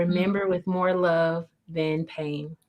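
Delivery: slow, soft and sincere; gentle quote. Real, not acted. Quoting David Kessler to close the interview, tender and slow. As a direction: let each word land tenderly. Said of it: "David Kessler".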